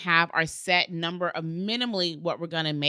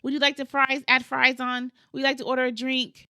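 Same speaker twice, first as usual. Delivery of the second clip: quick, upbeat drive-thru cashier pitch; upselling cashier; 6 semitones higher than usual. Retold or imitated. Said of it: "They wanna know".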